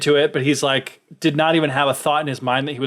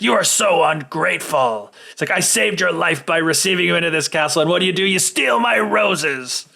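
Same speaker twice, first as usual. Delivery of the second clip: angry beast voice; 4 semitones higher than usual. Retold or imitated. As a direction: play the offended beast, stretching the end. Beast scolding merchant.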